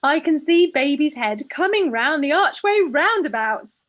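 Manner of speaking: slow, mild Irish brogue. Retold or imitated. Reader doing the Irish midwife announcing the head, mild Irish brogue. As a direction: try the Irish midwife's lilt, gently. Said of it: "in her thick Irish brogue".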